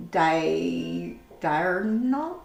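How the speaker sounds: "diurnal" sounded out softly, first syllable held; sounding out pronunciation. Shown as a demonstration. Streamer unsure how to say "diurnal", sounding it out softly. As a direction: softly stretch "di-" before attempting "diurnal". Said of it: "I don't know how to say that".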